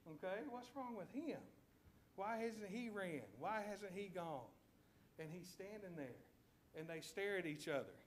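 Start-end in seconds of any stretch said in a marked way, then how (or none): 0.1-4.5 lightly voiced lion, pitched up in bafflement; a hint of a confused lion thinking aloud; puzzled lion. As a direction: wonder as a mildly baffled lion, higher than usual. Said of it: "the lion's gotta be thinking".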